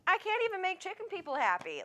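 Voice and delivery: high, loud exasperated squeal. Retold or imitated. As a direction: throw up your hands in disbelief. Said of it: "and I was like".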